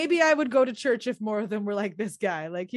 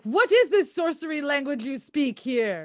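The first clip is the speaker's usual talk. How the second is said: baffled time traveller; 2 semitones higher than usual. Retold or imitated. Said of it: "if someone from Shakespeare's time came to now".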